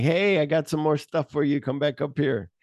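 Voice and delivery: mild mock yell up the stairs; retold yell. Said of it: "the guy yells down".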